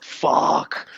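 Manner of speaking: breathy stunned whisper; whispered curse. Retold or imitated. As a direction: breathe it out in shock. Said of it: "I was like".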